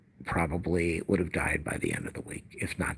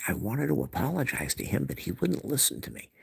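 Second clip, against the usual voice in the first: mock self-justifying whine in a higher pitch; staged complaint; 6 semitones higher than usual. Mother justifies herself to sister to be overheard, mock plaintive. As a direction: imitate someone complaining to be overheard. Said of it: "talking loud enough".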